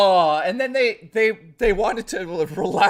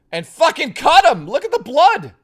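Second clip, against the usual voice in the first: higher, louder hammed-up alarm; mock horror; 11 semitones higher, 9 dB louder than usual. Showing viewers the frog photos, hammed-up horror. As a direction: play up the shock of the bloody photo.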